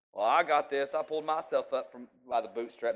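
cocky mock self-reliance; lightly mocking a proud boast. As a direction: puff up like a smug know-it-all. Preacher mocks self-reliant boast.

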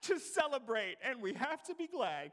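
booming sermon climax; preaching at full force. Real, not acted. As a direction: drive it home to the congregation. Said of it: "preaching climax".

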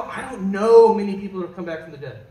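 skeptical doubt. Retold or imitated. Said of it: "I go".

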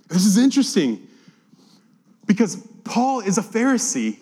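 ordinary talk

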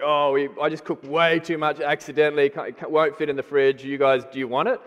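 a hint of casual macho offhandedness. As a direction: toss it off like it's nothing, lightly. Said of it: "in a real macho kind of way".

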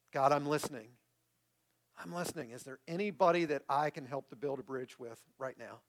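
sincere, measured public prayer. Real, not acted. Pastor closing the sermon in prayer, sincere and measured. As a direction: lead the congregation gently in prayer.

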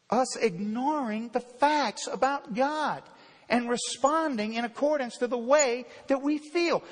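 ordinary delivery

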